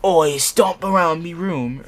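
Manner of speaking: mock pirate accent with a hearty Oi. Shown as a demonstration. Friend teases, so she reads it in pirate accent. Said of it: "What are you, a pirate now?".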